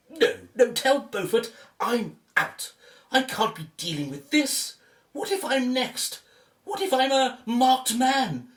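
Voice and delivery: frightened man backing out, voice rising; scared he is next, pleading to be let off; panicked. Acted. Man begging to quit the cursed dig, rising panic.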